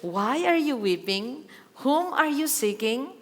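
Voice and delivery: gentle questioning. Retold or imitated. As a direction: ask slowly as if coaxing a grieving woman. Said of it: "dahan-dahan niyang nililid pa rin si Mary". (mahinahon at dahan-dahang pagtatanong)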